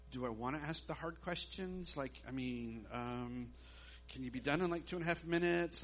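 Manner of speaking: softly hesitant, with hedging pauses; wary, low-volume dithering; reluctant inner debate. Retold or imitated. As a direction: think it over under your breath.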